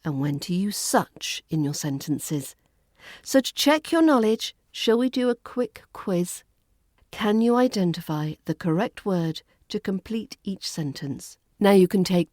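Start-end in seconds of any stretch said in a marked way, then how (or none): 3.2-6.4 conspiratorial whisper. Acted. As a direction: lean in and whisper it. Playful whispered aside.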